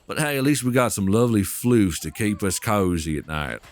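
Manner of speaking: put-on playful southern accent, a little low; lightly hammed Southern accent. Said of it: "I gotta do my southern accent".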